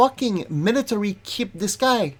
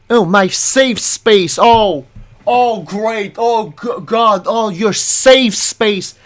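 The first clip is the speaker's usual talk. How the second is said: sarcastic mockery; 4 dB louder, slower than usual. Real, not acted. Mocking her phrase.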